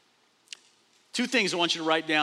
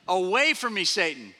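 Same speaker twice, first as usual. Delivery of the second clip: mild rebuke; 3 dB louder than usual. Acted. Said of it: "He yelled at him".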